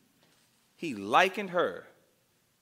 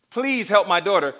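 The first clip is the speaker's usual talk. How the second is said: begging plea; 5 dB louder than usual. Retold or imitated. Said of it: "and you're crying".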